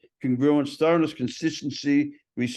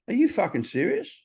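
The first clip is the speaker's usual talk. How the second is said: acted disbelief, pitched well up; incredulous reproach; 8 semitones higher than usual. Sponsor reacting to his story, incredulous reproach. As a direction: challenge him in high-pitched disbelief.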